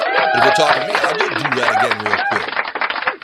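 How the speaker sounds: high robotic bot voice. Pretend. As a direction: talk like a chat bot. Bot voice answering chat.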